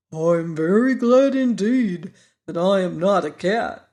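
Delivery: earnest pumpkin-head voice, firmly said; mean every word solemnly; seriously. A narrator's reading. Pumpkin head answers Tip's proverb, in solemn earnest. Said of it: "said Jack seriously".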